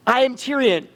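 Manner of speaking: measured character declaration; firm statement of identity; Tyrion. Shown as a demonstration. Coach demonstrates Tyrion for student, in character. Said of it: "when I'm right here and I go".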